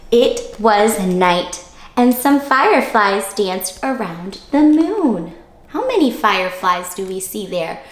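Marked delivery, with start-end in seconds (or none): 0.1-5.3 slow, lilting storybook read for little ones; reading to children. Acted. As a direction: read it like story time on the rug. Teacher reading picture book aloud.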